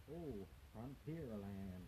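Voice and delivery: slow, drawn-out fake American accent on Frontierland; bad American accent.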